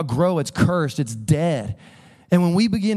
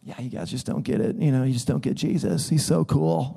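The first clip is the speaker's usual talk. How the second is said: smug dismissal; 3 semitones lower, 4 dB quieter than usual. Retold or imitated. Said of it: "get a little bit like".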